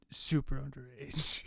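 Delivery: breathy under-the-breath punchline; whispered. Real, not acted. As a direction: drop to a whisper.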